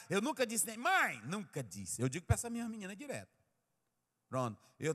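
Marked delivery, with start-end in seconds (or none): 0.8-1.2 brief high, louder call; demonstrated raised voice. Shown as a demonstration. Preacher shows what he never said, mock yell. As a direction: show a mock yell at a mother. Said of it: "eu gritei com minha mãe".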